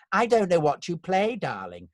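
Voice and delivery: high, emphatic theatrical put-down; casting director. Retold or imitated. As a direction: imitate a grand casting director, dropping on the last word. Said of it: "a casting director saying to me".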